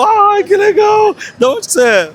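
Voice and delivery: high-pitched gushing fan-meet squeal; excited greeting. Retold or imitated. Vlogger acting out meeting fans at the fair, excited.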